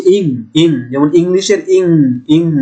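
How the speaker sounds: ইং with a long nasal ng; demo ng sound. Shown as a demonstration. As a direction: stretch the ng of ইং through the nose. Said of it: "শেষের টানটা একটু লম্বা করে দেয়া". (ইং শব্দে ঙ টেনে লম্বা করে)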